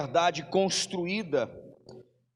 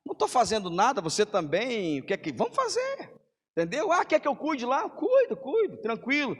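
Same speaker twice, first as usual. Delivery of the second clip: higher, breezy offhand mock voice; casual volunteer; 6 semitones higher than usual. Churchgoer offering to help out of boredom, higher and offhand. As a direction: lightly play a casual church helper. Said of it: "pelo simples fato".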